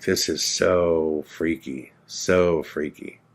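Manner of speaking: slow, drawn-out retold unease; freaked-out dread. Narrator to himself, alone after the alley, freaked out. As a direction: stretch it out, quietly unnerved.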